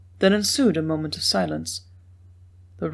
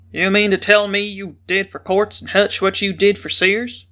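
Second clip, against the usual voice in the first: a mild boom, only a bit louder; lightly booming question; 3 dB louder than usual. A narrator's reading. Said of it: "he boomed out".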